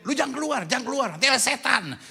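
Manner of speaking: warning parent. Acted. Parent warning children about evening devils, mock threatening. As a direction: imitate a parent scaring the children.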